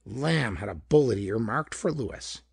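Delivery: ordinary delivery, nothing marked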